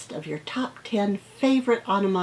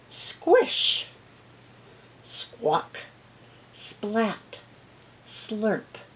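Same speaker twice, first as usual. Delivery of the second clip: sound words; 2 semitones higher, much slower than usual. Acted. Relishing sound words from book.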